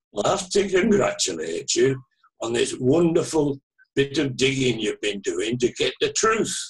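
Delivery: imitated Manchester caller; Mancunian accent. Caller congratulating the author, in a Manchester accent. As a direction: put on a light Mancunian accent. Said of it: "in that very distinctive Manchester, Mancunian, uh, accent".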